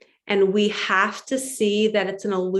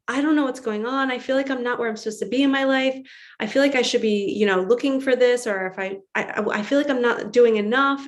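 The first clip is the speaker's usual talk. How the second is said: mock panic; 2 semitones higher, faster than usual. Calling her mentor about feeling lost, in a mild panic. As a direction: rattle it off like a worried caller. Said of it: "I would call my mentor in a panic".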